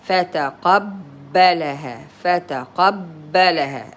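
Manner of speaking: فتقبلها with a held double b; doubled ba. Shown as a demonstration. Teacher explains shadda for a learner, doubling the b in فتقبلها. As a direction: pause on the b of فتقبلها as two letters. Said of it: "As if there are".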